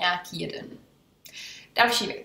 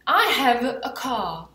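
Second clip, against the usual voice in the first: slow, careful English; slow model sentence; 4 dB louder, slower than usual. Shown as a demonstration. Teacher modelling a sentence slowly. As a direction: spell out each word for students. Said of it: "vy mi řeknete".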